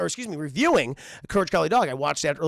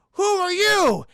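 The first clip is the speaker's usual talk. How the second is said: put-on high old-lady voice; 12 semitones higher, 7 dB louder, slower than usual. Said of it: "she's like".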